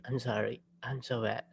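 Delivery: ordinary delivery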